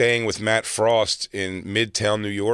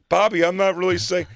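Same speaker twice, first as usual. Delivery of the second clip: higher-pitched retold objection; background protest; 8 semitones higher, 3 dB louder than usual. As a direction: try to get a word in from behind. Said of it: "I'm in the background going".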